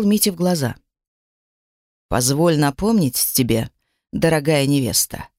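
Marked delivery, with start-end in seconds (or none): 2.1-5.3 low, cold and commanding; a hint of menace behind politeness. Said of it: "нехорошая повелительная нотка".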